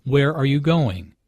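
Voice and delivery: falling tune on "Where are you going?"; "Where are you going?" asked as an information question, pitch falling; falling intonation. Shown as a demonstration. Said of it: "Notice the falling intonation".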